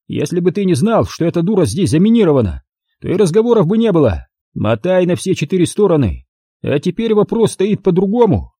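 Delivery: high, rapid thug threat; menacing thug. Acted. Thug tells the witness he must be eliminated, high and menacing. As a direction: lay out the death sentence coldly.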